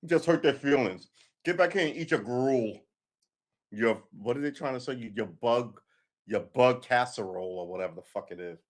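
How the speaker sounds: mock yell. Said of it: "Some man will scream out".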